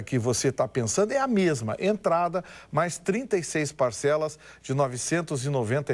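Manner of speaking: upbeat car dealer ad read; booming prize announcer. Acted. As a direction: sell it like a radio pitchman. (locutor de anúncio animado)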